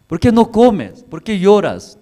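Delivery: husband Elcana pleads with crying Ana, high and loud; pleading husband. Acted. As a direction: beg her gently but urgently like a worried loving husband.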